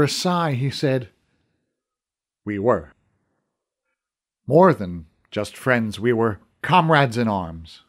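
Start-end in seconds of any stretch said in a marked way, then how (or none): 2.4-7.8 lightly voiced old archer, slow and low; a hint of an aged warrior remembering, slow; old archer, wistful. A narrator's reading. Old archer recalling lost friendship.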